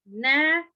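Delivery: three spaced beats on "narrower", long final er; broken into syllables. Shown as a demonstration. Teacher showing comparative, "narrower" split in three. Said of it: "transferring it to comparative, we are saying".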